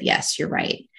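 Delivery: breathy, voiceless whisper of agreement; quiet whispered reply; whispered yes. Retold or imitated. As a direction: whisper the surrender, barely audible. First time agreeing to get help.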